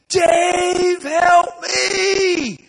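high, loud cry for help; panicked yell. Retold or imitated. Helper George calls to the preacher for help, high panicked yell. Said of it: "hear George behind me screaming".

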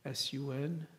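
S U N spelled letter by letter; clarifying sun, not son. Shown as a demonstration. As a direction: spell out S U N, each letter apart. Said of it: "that risen sun".

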